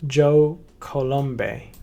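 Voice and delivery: slow, drawn-out Italian-sounding "Joe Colombe"; tentative Italian accent. Pretend. Trying out an Italian accent on the founder's name, slow. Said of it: "I'm gonna try to make his accent".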